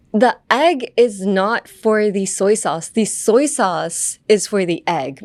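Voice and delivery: slow example sentence. Shown as a demonstration. Example sentence spoken out slowly.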